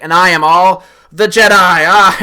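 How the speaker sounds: loud, high, yelled defiance ending in a shout; hammed-up heroine yell; heroic battle cry. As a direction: scream it as you strike back. Rey's battle cry in scene.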